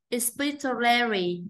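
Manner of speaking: "Expiratory" with the stress on its second syllable, PI. Shown as a demonstration. Teacher modelling stress for students, second syllable of "Expiratory" stressed. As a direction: slowly sound out "Expiratory", leaning on PI. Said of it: "nhấn âm hai".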